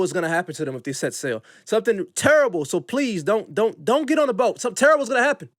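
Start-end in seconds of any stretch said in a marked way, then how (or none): 1.6-5.5 higher-pitched, pleading mock warning; mock urgent warning. Time traveler warning passengers off the boat, mock urgent plea. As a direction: plead with them, lightly hammed-up. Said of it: "I would warn all the white people".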